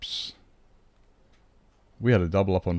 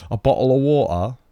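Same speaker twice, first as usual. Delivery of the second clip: louder mock American retry; American accent; 3 semitones higher, 5 dB louder than usual. Retrying the American accent for chat. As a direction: another bad American try. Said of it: "American accent".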